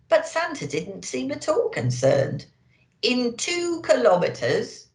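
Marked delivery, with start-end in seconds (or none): 3.0-4.9 a hint of a bossy navigation voice, slow and precise; slow, clipped sat-nav orders; bossy sat-nav lady. Santa Nav giving directions, lightly bossy. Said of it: "in a bossy lady's voice".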